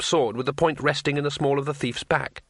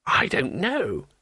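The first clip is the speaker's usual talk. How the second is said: slow, higher-pitched moan; 4 semitones higher, slower than usual. Acted. Tourist upset about the burning inn, moaning. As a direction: draw it out plaintively. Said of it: "moaned Two Flower".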